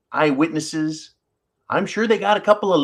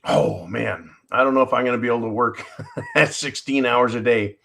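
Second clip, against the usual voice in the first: laughing; 6 semitones lower, 3 dB quieter than usual. Real, not acted. Laughing at own workload.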